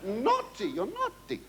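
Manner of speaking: high camp scolding of the heckler; mock scolding. Comedian teasing a heckling audience, in high mock scolding.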